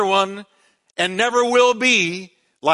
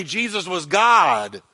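slow, weighty Jesus was God; emphatic declaration; slower than usual. Shown as a demonstration. Preacher leading the congregation in a slow, stressed declaration. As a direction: land every word slowly, stress on God. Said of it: "I want you to say that with me".

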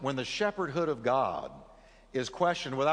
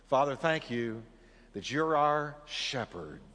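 prayer. Real, not acted. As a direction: pray over the congregation sincerely. Leads a short prayer.

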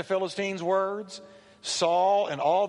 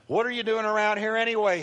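mildly irate, higher and quick demand; angry older brother; 5 semitones higher, faster than usual. Acted. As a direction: fire off the question in annoyance. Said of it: "he was angry".

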